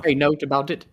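a hint of an Irish lilt on "Hey, note about it"; playful half-Irish try at the word "nowt"; a little Irish. Shown as a demonstration. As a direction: say "note" with a light Irish accent, rising on "Hey". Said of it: "That was almost a little Irish".

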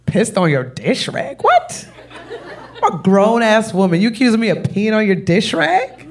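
mock outrage.

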